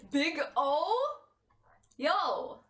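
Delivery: loud hey; shout. Real, not acted. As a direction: call out loud. Calling out.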